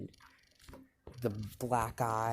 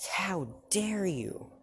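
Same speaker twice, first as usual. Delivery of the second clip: high, drawn-out indignant cry; outraged; 9 semitones higher, slower than usual. Acted. Mom throwing Deku out of the house, outraged. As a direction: stretch it out in acted outrage. Retold mother's outraged outburst.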